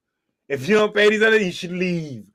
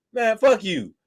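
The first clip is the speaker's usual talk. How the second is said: dismissive; 4 semitones higher, slower than usual. Shown as a demonstration. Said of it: "look at them and say".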